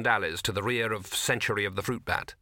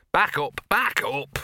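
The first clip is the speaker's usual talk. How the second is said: loud slow barked order; sharp command; 3 semitones higher, 5 dB louder, slower than usual. Acted. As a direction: order the dog back firmly. Ordering dog loudly.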